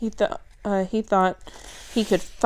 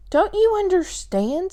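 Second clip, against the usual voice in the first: exasperated; 11 semitones higher, 4 dB louder than usual. Acted. Billy pleading in frustration.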